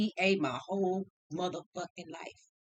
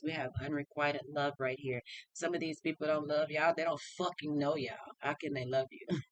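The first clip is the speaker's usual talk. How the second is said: lower, steady reader's delivery; channeled tarot reading; 5 semitones lower than usual. Acted. Reader relaying Spirit's messages to viewers, lower and steady.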